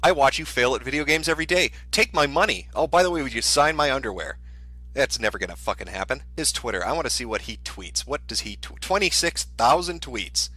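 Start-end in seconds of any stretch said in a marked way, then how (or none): 0.0-4.4 gushing fan. Acted. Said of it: "Do you think anybody says". 8.8-10.5 slow, higher-pitched disbelief; incredulous. Real, not acted. Astonished at the tweet count.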